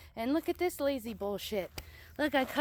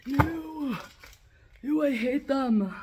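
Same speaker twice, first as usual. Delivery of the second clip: disgusted; 5 semitones higher, 4 dB louder, slower than usual. Real, not acted. Disgusted by a dead centipede.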